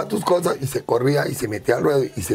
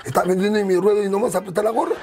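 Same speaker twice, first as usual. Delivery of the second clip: mock demand; 6 semitones higher, faster than usual. Retold demand to Cotito.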